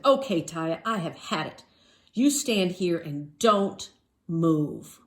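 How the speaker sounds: firm, slow fed-up dad; father laying down the law in the store; mildly angry father. Acted. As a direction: warn her, patience gone. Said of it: "'cause they're angry".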